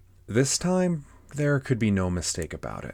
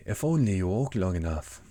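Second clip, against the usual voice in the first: Cheshire Cat. Acted. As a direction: stretch the words out like a leisurely storybook cat. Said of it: "said the cat".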